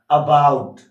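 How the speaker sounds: अबाउट with a light, neutral first vowel; अबाउट opening on a light schwa; weak first vowel. Shown as a demonstration. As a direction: punch the second syllable of अबाउट loudly. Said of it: "जहाँ पे ए को ओ की तरह बोल दिया जाता है".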